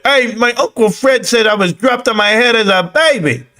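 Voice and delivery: put-on high-pitched, playful Italian accent. Streamer hails Catman in a put-on Italian accent. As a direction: swing into a high mock-Italian voice. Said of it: "that's my Italian accent".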